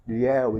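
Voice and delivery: "Ilhéu" with the éu clearly open; open vowel demo. Shown as a demonstration. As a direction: open the lips on the end of "Ilhéu". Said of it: "eles se abrem". ("Ilhéu" com ditongo aberto, abrindo os lábios)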